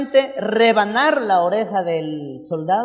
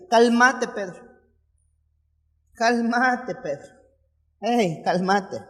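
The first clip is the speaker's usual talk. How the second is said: calming rebuke; 4 dB quieter, slower than usual. Acted. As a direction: talk a hothead down gently. Jesus calming Peter down.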